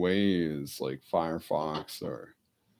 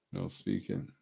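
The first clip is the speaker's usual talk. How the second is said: much lower, growled "No speaking"; deep low order; 10 semitones lower than usual. Shown as a demonstration. Owner trying a deep voice on the dog, much lower. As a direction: drop the voice way down for "No speaking". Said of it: "See the vocal tricks?".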